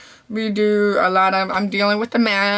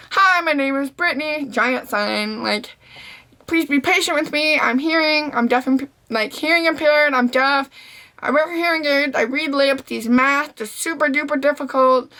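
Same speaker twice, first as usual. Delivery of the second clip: higher-pitched recital of her sign; reading out sign; 5 semitones higher than usual. Retold or imitated. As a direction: read it out like a polite notice.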